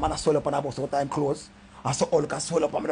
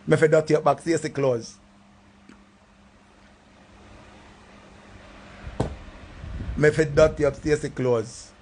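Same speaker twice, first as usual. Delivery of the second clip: vexed threat. Acted. Vexed threat about her clothes.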